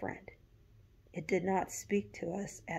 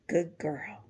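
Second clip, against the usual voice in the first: put-on whispered good girl, rising; whispered goodnight; 5 dB louder than usual. A narrator's reading. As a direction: breathe it as a goodnight.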